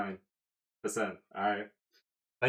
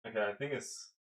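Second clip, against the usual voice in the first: winded and panting slightly; out of breath; 5 dB quieter than usual. Real, not acted. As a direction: still catching breath. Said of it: "I need to catch my breath".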